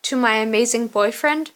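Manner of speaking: put-on mildly incredulous, lifting at the end of boyfriend; a touch of disbelief, questioning; incredulous quote. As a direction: quote the toast back as a rising question. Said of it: "toasting to Kenna and Dom after I said".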